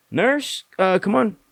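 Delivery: doctor calling a nurse in a hurry; urgent call. Retold or imitated.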